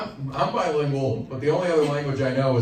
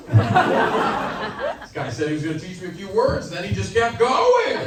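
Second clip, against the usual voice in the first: high, drawn-out aggrieved complaint; hammed-up grievance, pitched up; mock victim's protest; 7 semitones higher, 4 dB louder than usual. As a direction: plead your case like a duped victim. Acts reluctant learner protesting.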